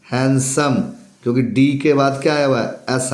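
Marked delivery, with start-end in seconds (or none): 0.1-0.7 हैंडसम said as hensam with no d; silent d. Shown as a demonstration. Teacher repeating हैंडसम for students, silent d. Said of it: "हैंडसम नहीं".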